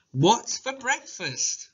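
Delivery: put-on slow, high child asking; child's eager question. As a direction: ask like an excited kid. Child voiced in story.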